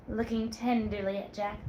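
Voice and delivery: usual speaking voice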